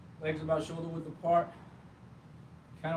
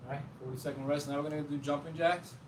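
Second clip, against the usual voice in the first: winded after the exercise; out of breath. Real, not acted. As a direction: breathe hard between words. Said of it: "I'm a little bit winded".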